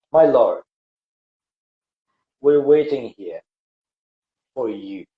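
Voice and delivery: the faithful few answering God calmly; calm and patient. Acted. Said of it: "very calmly, very patient".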